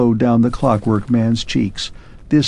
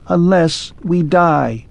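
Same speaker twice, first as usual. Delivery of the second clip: slow, raised, grave machine voice; clockwork man; 6 semitones higher, slower than usual. Acted. Clockwork man tells Arthur the grim answer slowly. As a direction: let it drop heavily.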